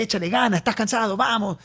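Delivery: rally a tired friend along; upbeat imitation of encouraging someone; cheering pep talk. Acting out his usual cheerful pep talk.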